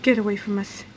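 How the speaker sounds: building to a shrieking cry; flustered yell. A narrator's reading. Mother fending off Krupp with her purse, rising shriek. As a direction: sputter in panic as she swats him. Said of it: "Missus Needley yelled".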